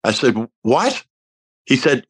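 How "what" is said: sharp high rising what; startled what. Retold or imitated. Hearing Carl wants to perform the album, startled disbelief. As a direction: caught totally off guard.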